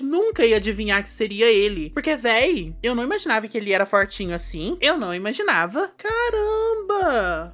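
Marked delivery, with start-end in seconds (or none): 6.0-7.5 high, drawn-out astonished cry; surprised exclamation. Real, not acted. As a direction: stretch it out in shock. Reacting to the tie.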